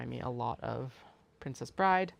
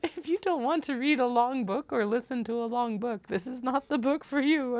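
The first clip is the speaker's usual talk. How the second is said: higher, louder mock announcement voice; mock stern warning; 10 semitones higher, 6 dB louder than usual. Quoting the audiobook's long-book warning, mock stern. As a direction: read the book's warning like a grave notice. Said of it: "there was a warning of".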